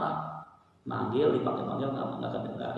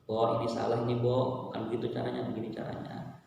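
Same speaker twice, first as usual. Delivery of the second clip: softly trailing gentle reproof; mild, soft-spoken admonishment; gentle correction; 3 dB quieter than usual. Acted. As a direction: correct them kindly, easing off quieter. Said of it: "menegurnya dengan lembut".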